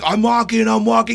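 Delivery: mock a player hurriedly complying; protesting player. Player answering an angry umpire, mock protesting.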